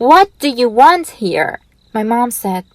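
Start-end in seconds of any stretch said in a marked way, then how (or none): 0.1-1.5 mock shout. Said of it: "my dad came to the front door and shouted".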